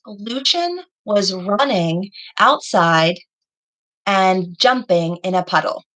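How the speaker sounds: each word slow and clear for the class to write; slow dictation. Shown as a demonstration. Teacher dictating a sample sentence to pupils, slowly. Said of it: "So if I were to say a sentence".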